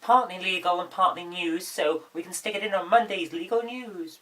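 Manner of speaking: husky voice from a cold; hoarse. Real, not acted. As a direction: talk through a sore throat. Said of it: "if I sound like I've got a frog in my throat".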